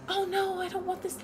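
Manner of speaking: put-on high, soft, cute girly whine; cute sweet voice. Describing Kanata's voice to chat, cute and soft. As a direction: squeak it out like a sweet timid girl. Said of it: "a very, like, cute, like, nice, I love everybody kind of voice".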